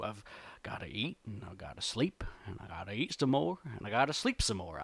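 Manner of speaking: lightly voiced bear, low and soft; low, easygoing reluctant grumbler.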